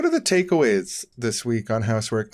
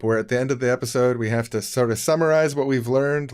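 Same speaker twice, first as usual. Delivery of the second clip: put-on kids' show host; 3 semitones higher than usual. Kids' show style wrap-up intro.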